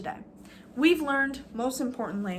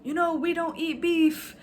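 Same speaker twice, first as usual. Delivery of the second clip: mock Arab accent; 6 semitones higher, 4 dB louder than usual. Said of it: "they were like".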